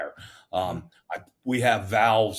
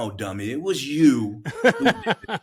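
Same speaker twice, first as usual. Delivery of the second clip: higher, louder laughing self-scold; 5 semitones higher, 4 dB louder than usual. Real, not acted. Firefighter laughing at his own mistake, scolding. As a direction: chide yourself through a laugh.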